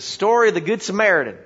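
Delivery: quick, lightly voiced country preacher; a hint of backwoods twang and pride. Country preacher naming his favorite part, backwoods voice. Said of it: "kind of a backwoods kinda guy".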